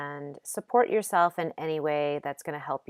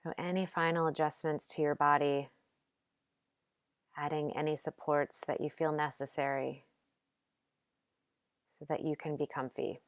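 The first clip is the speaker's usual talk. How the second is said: gentle, unhurried meditation guidance with long pauses; calm yoga nidra instruction, lightly softened; guided meditation; 4 dB quieter than usual. Acted. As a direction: guide them softly into rest, leaving space between phrases.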